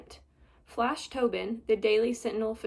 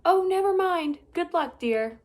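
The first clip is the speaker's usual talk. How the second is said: loud, high motherly call; calling back; 7 semitones higher, 7 dB louder than usual. Acted. Mother calling to son in the crack, loud. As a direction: call after him kindly but loud. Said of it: "Miss Lambchop called back".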